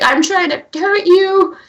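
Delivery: high, loud monster cry; Godzilla roar. Acted. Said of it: "Kara's raging voice is that of the traditional Godzilla".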